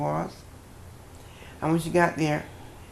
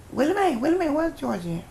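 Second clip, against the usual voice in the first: demanding father; 12 semitones higher, 4 dB louder, faster than usual. Retold or imitated. Father demanding where she is.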